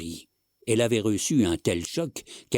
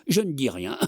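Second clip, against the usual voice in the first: higher, broken up by coughs; coughing fit; 4 semitones higher than usual. Acted. Old man placating his wife, coughing. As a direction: speak between acted coughs. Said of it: "qui avait enfin cessé de tousser".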